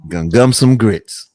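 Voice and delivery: gumming words with no teeth; toothless. Pretend. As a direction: toothless old mouth. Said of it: "let me take my teeth out".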